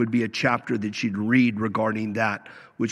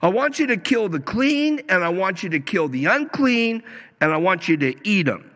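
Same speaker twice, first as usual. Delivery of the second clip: lightly acted commanding voice, pitched higher; voice from heaven; 5 semitones higher than usual. Preacher quotes the voice telling Peter to eat, lightly acted command. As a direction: hand down a command, drawing out the first words. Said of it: "a voice came to him".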